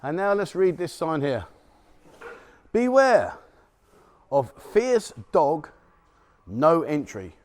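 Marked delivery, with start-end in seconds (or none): 2.7-7.4 mock warning. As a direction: sign read out with slow, punched words. Reading a warning sign aloud.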